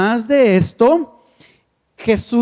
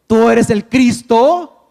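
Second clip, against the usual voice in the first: bold confession; 6 dB louder, slower than usual. Acted. Preacher voices Peter's confession.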